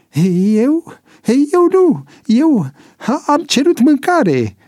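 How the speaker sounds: high-pitched, flustered protest; stammering. A narrator's reading. Accused informer denying it before the ranks, stammering. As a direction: stammer out a panicked denial. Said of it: "În timp ce se bâlbâia".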